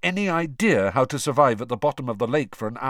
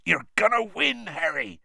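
higher, eager and sure; excited encouragement; 8 semitones higher than usual. Acted. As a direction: cheer him on brightly. Hagrid cheering Harry on.

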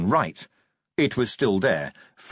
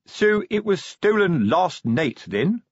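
pompous sergeant voice; 8 semitones higher, slower than usual. Acted. Colon voiced in read story.

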